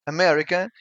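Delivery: "America" with both A's shut, stress on me; Portuguese word. Shown as a demonstration. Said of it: "Both A's are shut".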